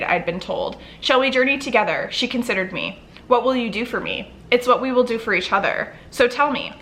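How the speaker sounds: measured read-aloud of a novel; story narration. A narrator's reading. Vlogger reading a favorite book passage to viewers, story narration.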